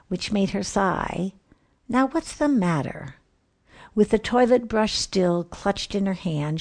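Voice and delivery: lively rhythmic poem recital; poem reading. A narrator's reading. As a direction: read it with bouncy rhyme and timing. Reads a comic Christmas poem aloud.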